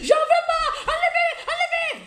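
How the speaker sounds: mock hysterical scream with laughter. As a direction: scream it like a panicked mother on the exam table. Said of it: "J'ai commencé à crier".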